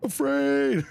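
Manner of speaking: sudden very high excited shout; excited cry. Acted. Streamer picks the scary option for the possum, excited shout. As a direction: burst out with it.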